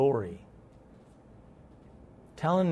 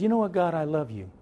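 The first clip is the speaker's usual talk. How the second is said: tender prayer; 3 dB quieter than usual. Retold or imitated. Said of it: "I said".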